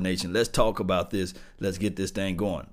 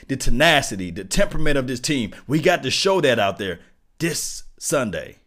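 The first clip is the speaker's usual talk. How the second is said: hyped shout; 4 semitones higher, 6 dB louder than usual. Real, not acted. Hype rant continues.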